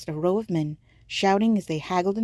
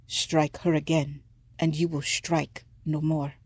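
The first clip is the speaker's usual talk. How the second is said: stern elder. Acted. Ubaba stops the merchant.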